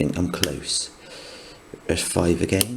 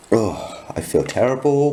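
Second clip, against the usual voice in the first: sick, groaning complaint; man flu groan; 4 semitones higher than usual. Real, not acted. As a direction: moan like you're miserably ill. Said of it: "man flu".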